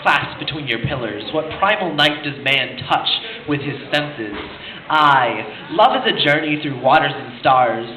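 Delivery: measured, dramatic poem reading; poetry recitation. Acted. Reciting Neruda to a crowd, measured poetry reading. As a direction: recite it with weight, phrase by phrase.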